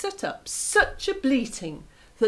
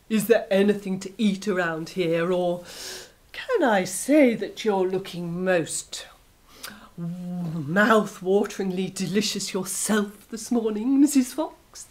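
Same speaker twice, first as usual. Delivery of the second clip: greedy wolf; 2 semitones lower than usual. Acted. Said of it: "he grinned at her".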